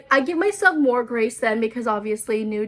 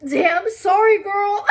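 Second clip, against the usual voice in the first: mock apology; 8 semitones higher, 4 dB louder, slower than usual. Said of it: "So I'm like".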